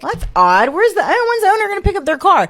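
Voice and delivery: high, loud, wondering aloud; exaggerated high-pitched puzzled question; retold puzzlement. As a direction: act out being baffled, pitch jumping up. Retold puzzlement over unclaimed cars.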